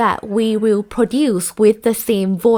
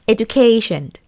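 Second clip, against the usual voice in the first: EDUCATION with a long, raised KAY; stress on KAY syllable. Shown as a demonstration. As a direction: stretch and lift the "ca" in "Education". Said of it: "high pitch and long length".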